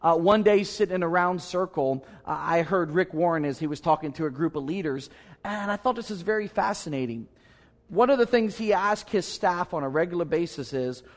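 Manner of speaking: usual speaking voice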